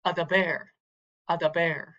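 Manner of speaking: "Adaber" with the weight on "ber"; final-syllable stress. Shown as a demonstration. Teacher modelling Hebrew accent, "Adaber" stressed at the end. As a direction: lean on the last syllable of "Adaber". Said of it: "on the last syllable".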